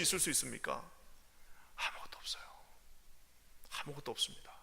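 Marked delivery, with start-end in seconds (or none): 1.8-4.5 soft, hushed; whisper. Real, not acted. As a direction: let it sink in quietly. Hushed whisper after outburst.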